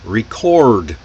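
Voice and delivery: "Record" with the R before the D fully sounded; strong American R. Shown as a demonstration. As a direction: curl the tongue for the R in "Record". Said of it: "repeat the strong R sounds".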